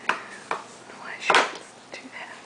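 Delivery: soft slow put-on baby voice; voicing the baby. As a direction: answer for the baby, sulky and hushed. Voicing baby's reply.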